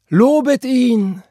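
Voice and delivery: high, slow, ringing cry of praise; loud cry. Acted. Deborah calling out praise during the sermon, loud cry. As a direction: call out your praise across the church. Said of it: "rief Deborah. Noch nie hatte er ihre Stimme so laut gehört".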